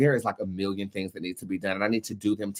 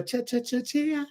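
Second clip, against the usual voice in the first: sing-song calling; 13 semitones higher, 4 dB quieter than usual. Real, not acted. Calling the client's name.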